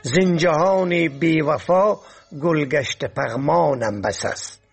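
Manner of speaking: lightly lilting poetry recital; poem recitation. Acted. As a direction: recite it as classical verse, pausing after each half-line. Recites a couplet.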